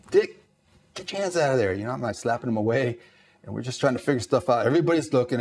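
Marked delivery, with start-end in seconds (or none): 0.1-1.7 sharp retold order. Snapping at fumbling petty officer.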